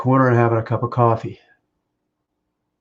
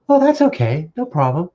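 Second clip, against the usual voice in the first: her friendly reply; 4 dB louder than usual. Retold or imitated. Husband acting out his future wife's friendly reply at the club. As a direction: mimic her bright, easy answer. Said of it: "Like that".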